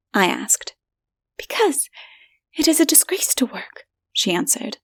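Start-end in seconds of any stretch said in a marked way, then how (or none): 1.4-3.8 high, hushed whisper of a scared woman; frightened woman whispering. A narrator's reading. Stranger's companion warning him, hushed and frightened. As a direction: keep it secret and fearful.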